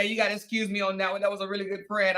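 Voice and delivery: quick, sarcastic parroting of his excuse; mocking imitation. Woman mocks man's excuse about his friend, sarcastically parroting. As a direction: throw his own words back at him mockingly. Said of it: "Did he just try to little".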